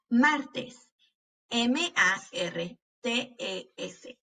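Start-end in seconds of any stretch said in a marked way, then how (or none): 1.5-4.2 slow, letter by letter; spelling out. Shown as a demonstration. Teacher spelling martes for pupils, letter by letter. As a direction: leave a gap after each letter. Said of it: "cuando estamos deletreando estas palabras".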